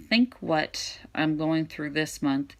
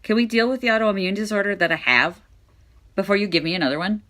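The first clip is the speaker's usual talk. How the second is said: exasperated retort; 5 semitones higher, 5 dB louder, faster than usual. Retold or imitated. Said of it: "I'm like".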